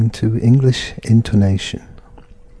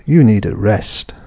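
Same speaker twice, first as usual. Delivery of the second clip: "You" stressed, falling to "rest"; command tone. Shown as a demonstration. Teacher repeating the command example to learners. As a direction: give the order firmly and falling.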